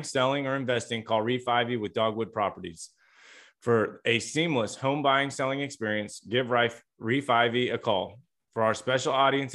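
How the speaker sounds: even, scripted podcast ad read; sponsor ad read. Acted. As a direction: read the sponsor copy smoothly to listeners. Host reads sponsor message.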